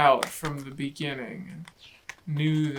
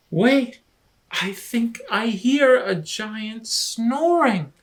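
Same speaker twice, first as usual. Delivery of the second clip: high, loud startled Rabbit; alarmed whisper-shout; 7 semitones higher, 8 dB louder than usual. Acted. Rabbit tells Lion he hears a giant, high alarmed call. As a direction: stop everyone, sounding spooked.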